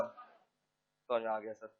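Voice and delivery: dropped, slow, far-off mock deference; sarcastically sweet, slowed check-in; mock soft question. Teacher to student, slow mock-polite question.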